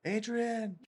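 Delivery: high yelled call, lightly imitated; a hint of the famous boxer's shout; Rocky. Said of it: "What does, what does he say?".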